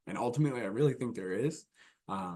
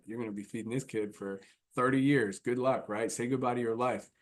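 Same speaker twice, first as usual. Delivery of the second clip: joy thief. Shown as a demonstration. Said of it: "Complete joy thief".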